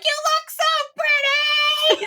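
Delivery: high, drawn-out sing-song gush; delighted, sing-song call across a crowd; gushing compliment. Retold or imitated. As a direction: sing it out slowly to a stranger. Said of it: "I was like".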